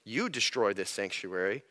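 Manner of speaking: "You" stressed, the real words. Shown as a demonstration. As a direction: lean hard on "You destroy". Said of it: "He says".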